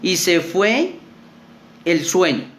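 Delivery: slow, measured Bible reading; scripture reading. Acted. Youth leader reads Daniel aloud to youth, slow and measured. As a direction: read the verse slowly to the youth group.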